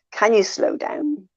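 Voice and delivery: slow, polite retold request; measured request. Listener asking a fast talker to ease off, measured request. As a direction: ask patiently, drawing the words out.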